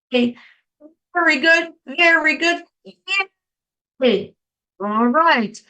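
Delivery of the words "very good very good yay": high, bright chant of praise; cheer. Shown as a demonstration. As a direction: cheer the group on. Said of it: "when you do very good, very good, yay".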